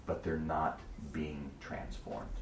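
low and slow, almost a whisper; mild retold hush, slowed down; hushed, serious. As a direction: lean in and hush the words, gravely. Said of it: "kind of in a whispered, serious tone".

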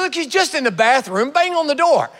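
high, loud jeering banter; mock them like a heckler at the door; preacher voicing Elijah's loud mockery of Baal; mocking taunt. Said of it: "Elijah's just mocking him".

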